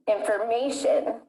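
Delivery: "Information" with an overdone third syllable, MAY; exaggerated word stress. Shown as a demonstration. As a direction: lean hard and long on the MAY of "Information". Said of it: "I was exaggerating the stress".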